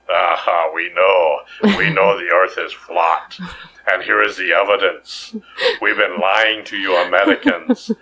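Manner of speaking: a cartoon Russian villain gloating in a put-on Russian accent. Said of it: "I thought that was an excellent Russian accent".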